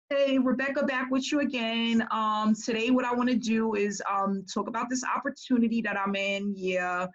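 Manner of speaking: mimicking the same blah sales pitch; a lightly mocked lifeless recruiter intro; no enthusiasm. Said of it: "they were all the same".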